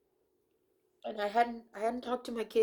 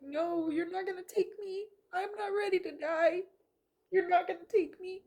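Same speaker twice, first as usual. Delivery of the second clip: defiant refusal; 9 semitones higher than usual. Retold or imitated. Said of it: "and I'm like".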